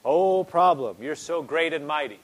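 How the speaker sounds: a mocking, loud "Oh" to the problem, then flattery that settles back; hammed-up praise of your own trouble; mock worship. Preacher mocking a worrier who praises the problem, mock adoring. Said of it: "A lot of people are reverencing their problem".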